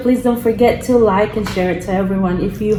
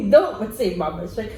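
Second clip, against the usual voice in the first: laughing; 5 dB quieter than usual. Real, not acted. Mom laughing at child.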